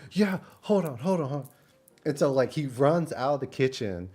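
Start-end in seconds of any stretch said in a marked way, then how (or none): 0.1-1.5 high hurried mock voice; imitating the cook. Vlogger imitating the cook rushing off, higher mock voice. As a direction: rush it like the eager cook. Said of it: "He's like".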